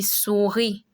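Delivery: "souris" ending on an ee sound, no final S; silent final S. Shown as a demonstration. Teacher shows learners the silent S, careful French pronunciation. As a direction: say "souris" with the last S left silent. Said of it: "You don't pronounce the S".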